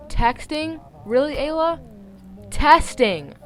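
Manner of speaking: high, loud disbelief at the slip; exasperated self-scolding. Real, not acted. Reader correcting her own misreading, exasperated. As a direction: scold yourself for the misread word.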